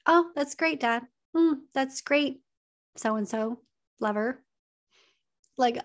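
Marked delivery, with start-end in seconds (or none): 0.1-4.4 emotionally detached. Shown as a demonstration. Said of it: "not have any emotional investment".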